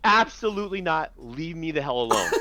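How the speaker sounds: retold firm, irritated dismissal; angry refusal. Handler re-enacting refusing a stranger's petting request, angry. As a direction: start high and emphatic, re-enacting a refusal. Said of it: "I was so angry".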